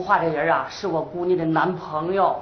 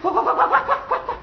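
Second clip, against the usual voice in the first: high-pitched, urgent cries for help; flustered calling; 13 semitones higher, faster than usual. Acted. Boss summoning daughter's boyfriend to the crying caller, flustered. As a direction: call out in a comic panic.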